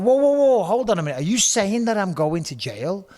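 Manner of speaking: whoa shouted high, then slowing down into disbelief; alarmed whoa. Retold or imitated. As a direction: recoil in shock at the news. Shocked at jail news.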